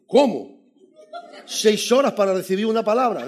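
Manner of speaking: loud incredulous cry, laughing through it; retelling his shocked reply to the pastor; mock outrage. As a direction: protest in disbelief.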